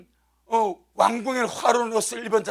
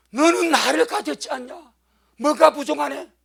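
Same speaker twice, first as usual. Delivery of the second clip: 너는 punched, louder and higher; ringing proclamation; 5 semitones higher, 6 dB louder than usual. Retold or imitated. Pastor repeating the Lord's words to the church, loud. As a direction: proclaim it to the congregation. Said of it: "주님 딱 말씀하더래".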